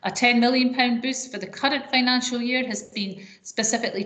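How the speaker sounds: fluent, measured reading of a prepared address; formal speech. Acted. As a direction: deliver a scripted policy speech to an audience.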